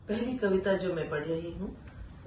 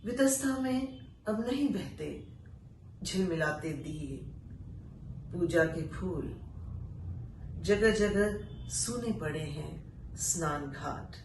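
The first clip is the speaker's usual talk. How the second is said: poetry recitation. Acted. Reciting an exile poem to listeners, solemn recital. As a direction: let each line land, then pause. Recites poet's dialogue with chinar.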